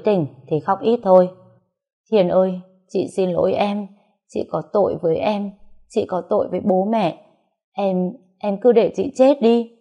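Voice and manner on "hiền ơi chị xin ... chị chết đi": tearful pleading. Acted. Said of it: "chị tôi đã òa khóc nức nở".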